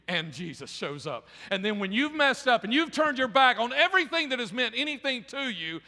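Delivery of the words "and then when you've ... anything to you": high, driving preacher's build; impassioned preaching. Real, not acted. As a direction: press it home with fervor.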